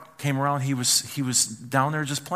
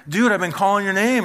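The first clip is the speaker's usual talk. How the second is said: raised, high-pitched complaint; exasperated parent; 7 semitones higher, 5 dB louder than usual. Acted. Parent to a kid who didn't answer, acted exasperation. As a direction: loudly protest being ignored.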